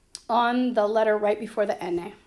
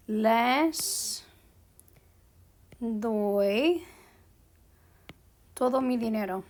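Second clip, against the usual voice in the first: word by word with long pauses; stretched first words, long gaps between; slow dictation; slower than usual. Shown as a demonstration. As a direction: dictate it slowly as if writing along. Writing out an example sentence.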